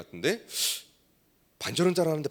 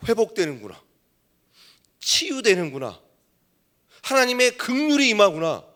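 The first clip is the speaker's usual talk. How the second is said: slow, rising preacher's cry, building to a loud peak; fervent preaching; 6 semitones higher, 5 dB louder than usual. Acted. Pastor tells the congregation his revelation, fervent building preaching. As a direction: preach it as a revelation, swelling higher and louder.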